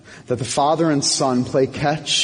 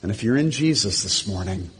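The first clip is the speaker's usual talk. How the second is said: lower, quieter preaching with pauses; gentle altar-call appeal; 4 semitones lower, 4 dB quieter than usual. Real, not acted. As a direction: softly invite them home, phrase by phrase. Pastor's soft closing appeal.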